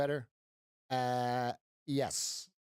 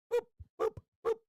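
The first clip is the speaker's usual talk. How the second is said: very high cartoon boop sounds; faster than usual. Playful sound effect for the trade, high boops. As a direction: squeak out the boops.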